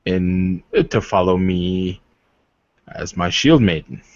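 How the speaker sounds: a hint of a formal, courtly warrior; lightly voiced noble warrior. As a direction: speak as a proud suitor, measured and earnest. GM voices NPC suitor.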